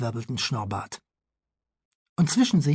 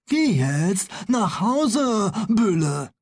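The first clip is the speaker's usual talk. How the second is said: slow, resigned doctor; 5 semitones higher, much slower than usual. Acted. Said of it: "sagte Doktor Proktor".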